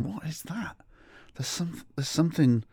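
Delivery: hushed, high-pitched alarm; soft, high, suspicious horror; mock dread. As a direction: imitate horrified companions, very softly. Others horrified by the smell.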